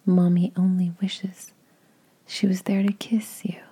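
usual speaking voice

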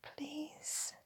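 barely audible, pleading whisper; whispered plea. A narrator's reading. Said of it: "I whisper".

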